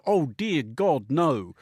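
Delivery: slow, drawn-out mock dismay; playfully appalled, each word stretched; mock-horrified denial. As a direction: draw it out as a light-hearted emphatic denial. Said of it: "I take about half a second to go".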